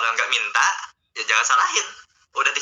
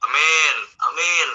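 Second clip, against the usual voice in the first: absent-minded, long drawn-out amens; distracted praying; much slower than usual. Preacher mimics praying while playing on a phone, distracted drawl. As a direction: drag out each amen with half your mind elsewhere. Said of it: "jangan minta doa sambil main H P".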